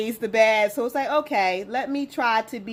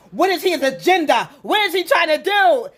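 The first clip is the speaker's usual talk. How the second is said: put-on kids' suspicious challenge; 6 semitones higher, 7 dB louder than usual. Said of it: "they're like".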